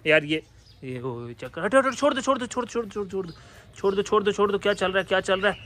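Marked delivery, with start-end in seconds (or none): 1.6-5.6 urgent. Real, not acted. Animals fighting, separating them.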